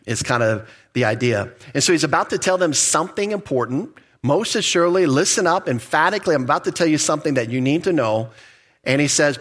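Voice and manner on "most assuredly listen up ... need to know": MOST ASSUREDLY pitched up as an announcement; emphatic. Acted. Preacher paraphrases Jesus announcing something important, MOST ASSUREDLY said emphatically. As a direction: lean on MOST ASSUREDLY, then press on to the point. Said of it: "It's an emphatic way for Jesus to say".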